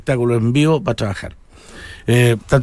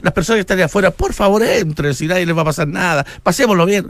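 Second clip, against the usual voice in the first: imitando a un animador formal y cortés, agudo y rápido; un presentador de fonda que da la bienvenida, tono alto y ligero; animador caballero; 4 semitones higher than usual. Retold or imitated. (animador de terno dando la bienvenida, voz aguda y rápida)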